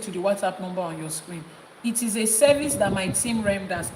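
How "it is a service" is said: "service" punched a little louder; stress on service. Real, not acted. Team's offer spelled out to clients, stress on "service". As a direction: lean on the word "service". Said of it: "Emphasis on service".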